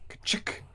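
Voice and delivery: imitated ka-chick of a lock; satisfying lock click. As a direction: click it out like a latch springing. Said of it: "a satisfying".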